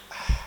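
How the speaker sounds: imitated sigh after a swig of soda; breathy exhaled "ah". Acting out a friend after drinking Coca-Cola, exhaled "ah". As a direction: let out an unvoiced "ah", as after drinking. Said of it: "Hace así".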